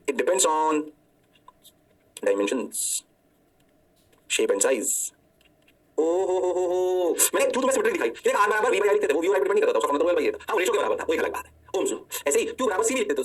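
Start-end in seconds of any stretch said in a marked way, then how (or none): 6.0-7.1 slow, held run of "oh-ho-ho"; mock awe. Teacher greeting what inductance depends on, slow mock awe. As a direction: marvel playfully, dragging it out.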